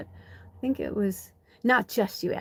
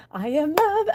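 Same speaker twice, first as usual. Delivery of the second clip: high, airy mantra of self-love; 8 semitones higher than usual. Shown as a demonstration. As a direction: chant it to yourself, lifted up high. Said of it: "I always be like".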